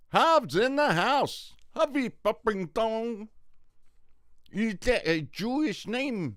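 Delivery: high, loud, slow announcer-style greeting; hyped shout-out. Real, not acted. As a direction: welcome him like a ring announcer. Greeting a viewer who joined.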